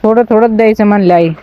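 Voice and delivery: normal talking voice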